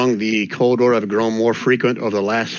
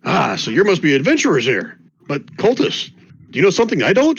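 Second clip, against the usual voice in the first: a lightly voiced nosy local, rising higher; curious townsperson; 5 semitones higher than usual. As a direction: play the villager fishing for gossip.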